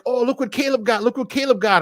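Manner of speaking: imitated giddy excitement; mock giddy. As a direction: gush giddily, mocking their excitement. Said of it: "they were all giddy".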